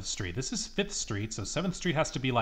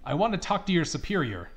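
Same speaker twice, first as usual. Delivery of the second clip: raised, huffy grandma threats; angry old lady; 7 semitones higher, 4 dB louder than usual. Acted. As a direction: threaten like an offended granny. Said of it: "Why is she so angry?".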